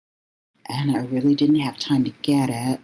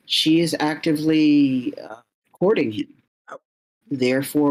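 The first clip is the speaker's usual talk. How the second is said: lightly voiced official. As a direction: pronounce the bylaws like a verdict. Official rules on consort status.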